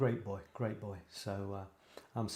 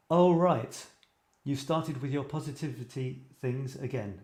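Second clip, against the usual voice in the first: scoffing; 3 dB louder than usual. Acted. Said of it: "she scoffed".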